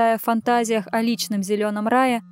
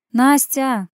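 demanding call; 3 semitones higher, 5 dB louder than usual. Acted. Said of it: "требовательно позвала Лера".

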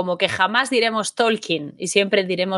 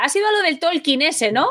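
lightly voiced grandmother, higher pitched questioning; imitating grandmother; 6 semitones higher than usual. Granddaughter retelling grandma asking about Tolkien, light imitation. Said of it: "mi abuela".

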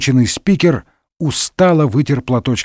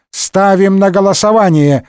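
higher official announcing tone; announcement; 6 semitones higher than usual. A narrator's reading. Speaker putting motion to the vote, official announcement. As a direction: announce it to the whole chamber. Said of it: "объявил спикер".

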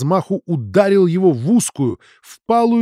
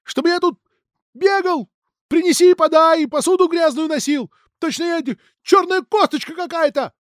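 angry rant; 14 semitones higher, 4 dB louder than usual. Acted. Son's outburst continues.

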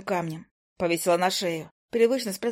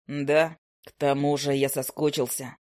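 put-on lower, slower young man; a calm offer in a low male voice; low hunter; 6 semitones lower, slower than usual.

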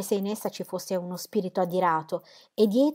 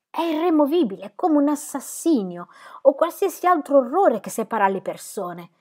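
higher and louder, bursting out in rage; angry outburst; 7 semitones higher, 5 dB louder than usual. Acted. Will bursting out at Dorotea in anger. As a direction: let the anger explode from you. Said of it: "sbottò di nuovo".

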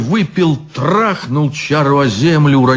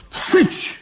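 hissed; 4 dB quieter than usual. Acted. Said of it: "сказал стражник".

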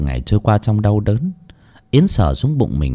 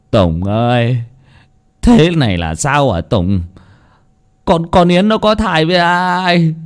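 a mild, tearful grumble rising higher; upset father half-sobbing his shame; whimpering; 7 semitones higher, 3 dB louder than usual. Acted. Father asking Tùng about his daughter, tearful and higher. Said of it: "Ông Vui mếu máo".

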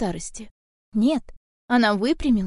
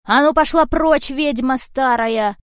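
furious shout; 3 semitones higher, 6 dB louder, slower than usual. Acted. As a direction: drive the old witch off. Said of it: "напустился кот на старуху". (кот яростно кричит на ведьму)

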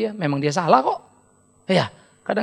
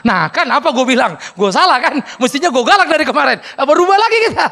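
laughing, louder and higher; laughing husband; 4 semitones higher, 4 dB louder than usual. Retold or imitated. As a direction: laugh at your own mistake. (tertawa sambil mengeluh)

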